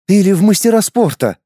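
snapped. A narrator's reading. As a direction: bite back at him. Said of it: "огрызнулась девица".

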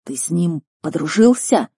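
mildly incredulous question; understated disbelief; surprised. Acted. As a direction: ask it with a touch of astonishment. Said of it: "удивлённо смотрел на меня".

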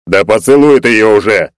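Egor's annoyed yell; exasperated shout. Acted. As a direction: push them to get on with it. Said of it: "возмущённый голос Егора".

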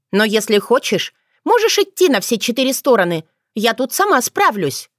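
put-on young witch shrugging him off, cheeky; cheeky young girl. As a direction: toss it off, self-assured. Otrada voiced higher.

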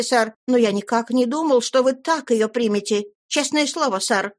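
put-on a hurt young man holding back emotion; deeply moved. A narrator's reading. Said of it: "с глубоким волнением".

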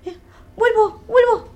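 high, strained effort, half sobbing; straining ghost. Acted. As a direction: push with all your strength to get back in. Ghost straining back into body.

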